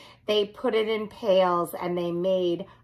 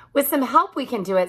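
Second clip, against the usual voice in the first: quick, louder eager promise; 4 semitones higher, 5 dB louder, much faster than usual. Acted. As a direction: rush it out, confident. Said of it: "said little cat C".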